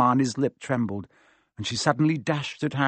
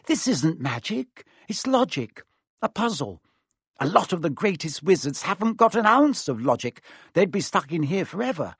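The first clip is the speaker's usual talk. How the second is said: lightly voiced clever girl, higher pitch; brisk delight in a logic puzzle, pitched up; Hermione; 6 semitones higher than usual. Story figure Hermione.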